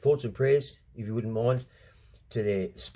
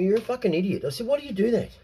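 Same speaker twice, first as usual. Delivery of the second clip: angry retold tirade; 7 semitones higher than usual. Telling the agent off, furious. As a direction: lay into him, then clip it off. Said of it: "I said to him".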